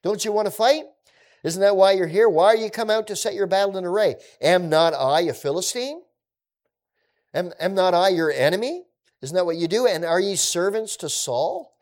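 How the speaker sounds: high, loud mocking challenge; Goliath taunting Israel, a hammed-up jeer; taunting giant. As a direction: goad the army from across the valley. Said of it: "He says".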